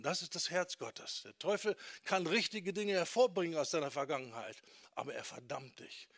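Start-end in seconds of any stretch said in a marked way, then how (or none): 4.9-6.1 soft, lower, unvoiced whisper; whispered warning. Real, not acted. Warning about the devil. (flüsternd und leiser, als Warnung)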